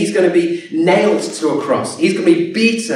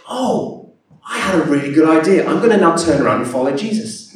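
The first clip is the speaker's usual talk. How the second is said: mock casual idea; faster than usual. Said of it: "isn't that".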